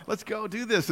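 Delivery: a touch of eagerness; mildly excited. Retold or imitated. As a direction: imitate someone keen to get going. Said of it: "I was kind of excited".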